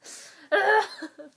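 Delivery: high, loud groan of frustration; frustrated groan. Real, not acted. Fan upset over singer's sad picture, frustrated groan. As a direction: let out a high frustrated noise.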